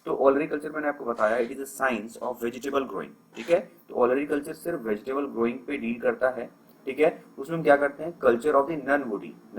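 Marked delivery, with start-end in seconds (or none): 1.5-3.4 slow, deliberate recap; slow dictation. Shown as a demonstration. Teacher repeating the definition slowly for the class. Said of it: "teacher repeating the definition". 8.2-9.6 very slow, word by word; slow dictation. Shown as a demonstration. Teacher dictating the key phrase slowly to students. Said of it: "teacher repeating the definition".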